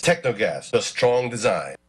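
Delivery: ordinary talk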